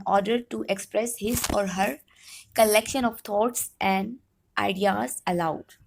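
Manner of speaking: slow, deliberate read-out; reading a definition aloud. Real, not acted. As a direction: read it out slowly, word by word. Reads out English definition. (ٹھہر ٹھہر کر تعریف پڑھتے ہوئے)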